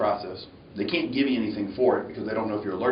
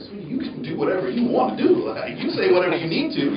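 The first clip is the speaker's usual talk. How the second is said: sweet nurse voice; 9 semitones higher than usual. Retold or imitated. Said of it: "She was like".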